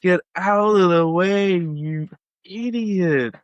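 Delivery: botched mock-Australian radio complaint, sounding American; attempted Australian accent, American-sounding. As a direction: draw it out in a bad Australian accent. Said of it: "You sound very American".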